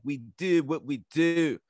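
slow, British-sounding Baltimore vowels; imitated Baltimore accent. Retelling a fighter who seemed British, imitated Baltimore accent. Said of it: "I thought he was a British dude".

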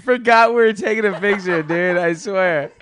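high and giggly, laughing through it; stoned, loose and giggling; stoner. Real, not acted. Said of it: "I think I'm pretty high right now".

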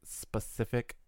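specific said softly and carefully, syllable by syllable; effortful pronunciation. Shown as a demonstration. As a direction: pick your way through the tricky word specific. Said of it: "a hard time saying".

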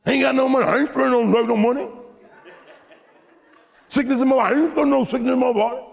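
high, shouted preaching; preaching at full force. Acted. Preacher exhorting his congregation, shouting. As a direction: drive the scripture home to the crowd.

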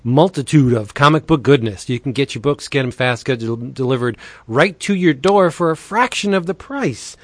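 upbeat pitchman read, leaning on the deals; breezy promo voice with punchy price reveals. Acted. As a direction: sell the comics like a radio spot host. Monthly DCB sponsor spot.

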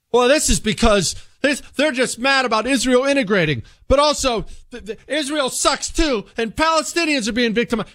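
high, hammed-up rambling politician; mock Biden rambling. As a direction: mimic a confused old politician. Mocking Biden's mixed message.

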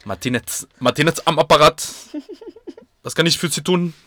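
put-on German accent. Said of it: "el cliché de cómo realmente debería sonar el alemán".

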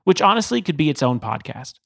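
steady scripted host narration; podcast intro read. Acted.

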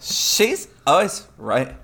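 slow, stiff, awkwardly drawn-out line; mock the stilted delivery, slowly; imitating slow awkward read. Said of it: "I like how you all like".

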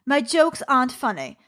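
inner critic's line in a put-on British accent; bad British accent. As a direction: say it lightly in a mock British accent. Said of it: "British woman with a bad British accent".

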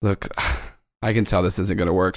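low, soft, weary exhale; resigned sighing. Acted. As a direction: sigh and give up on it quietly. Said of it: "She just sighs, just goes".

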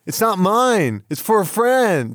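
high, corny sitcom delivery. Retold or imitated. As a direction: ham it up sitcom style. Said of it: "nineteen eighties sitcom".

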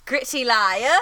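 mimicked British accent, questioning lift; imitated British accent, dropped R; put-on British accent. Shown as a demonstration. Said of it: "That's not my accent at all".

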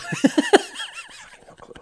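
drawn-out laughing admission. Real, not acted. Confessing to his friend he can't place Festus, laughing. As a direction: laugh through the words, slowly.

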